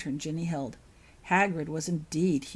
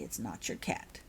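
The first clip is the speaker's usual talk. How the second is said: lightly voiced mother; 10 semitones lower, 8 dB quieter than usual. Mother gently correcting child.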